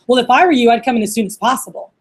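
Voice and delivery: pushy scripted read, hit loud at the start. Shown as a demonstration. Recruiter to applicant who said no, reading it bluntly. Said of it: "It's like reading it".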